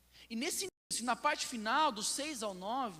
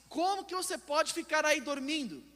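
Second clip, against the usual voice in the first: high, loud, alarmed command; acted captain's urgent cry; desperate shouting; 6 semitones higher, 8 dB louder than usual. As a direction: shout to rouse a sleeper in desperation. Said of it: "imagine alguém gritando, desesperado".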